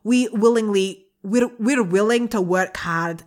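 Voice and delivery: put-on wobbly Scottish-sounding Irish accent, cracking up; attempted Irish accent. Co-host struggling through the listener's letter, attempted Irish accent. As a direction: keep the put-on brogue while a laugh breaks in. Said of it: "I was going for Irish".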